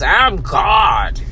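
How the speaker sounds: loud mock shout of a boast; emphatic shout. Quoting the rude man, shouting his boast. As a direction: bellow it like a proud boast. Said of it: "you're gonna say it with emphasis".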